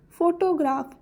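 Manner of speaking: "फोटोग्राफ" with fo leading and the rest lighter; stress on first syllable. Shown as a demonstration. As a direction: put the weight on fo in "फोटोग्राफ". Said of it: "फो को हम ज़रा ऊंची पढ़ेंगे".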